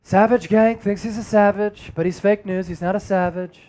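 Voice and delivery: lightly voiced political caricature; a hint of presidential impersonation, evenly declared; mild mock-Trump put-down; Donald Trump. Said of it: "Donald Trump impersonation right there".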